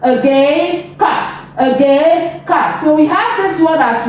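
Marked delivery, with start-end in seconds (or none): 1.0-1.3 CAT said short and quick; quick phonics take of CAT; faster blend. Shown as a demonstration. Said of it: "Now let's go faster". 2.5-2.8 CAT said short and quick; quick phonics take of CAT; faster blend. Shown as a demonstration. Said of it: "Now let's go faster".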